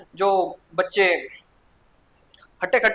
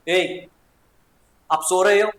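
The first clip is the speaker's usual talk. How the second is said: scolding teacher; 4 dB louder, slower than usual. Acted. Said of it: "teacher बोलता है".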